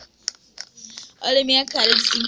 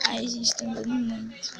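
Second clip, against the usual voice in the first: whisper; 6 dB quieter than usual. Real, not acted. Nervous aside while playing.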